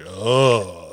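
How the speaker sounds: long, low groan of squeamishness; disgusted groan. Retold or imitated. Horror fan recoiling at eyes on screen, queasy groan. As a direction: drop the pitch into a drawn-out, queasy groan. Disgusted reaction to eye gore.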